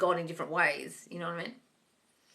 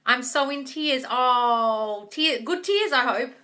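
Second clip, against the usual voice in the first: touched; 4 semitones higher, 6 dB louder, much slower than usual. Real, not acted. Touched by viewer's message.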